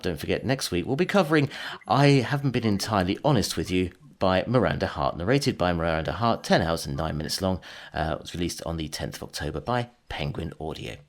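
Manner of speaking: smooth TV continuity announcer. Shown as a demonstration. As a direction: sign off like a late-night TV announcer. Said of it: "in your T V announcer voice".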